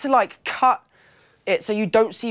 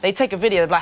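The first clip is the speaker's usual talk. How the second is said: ordinary talk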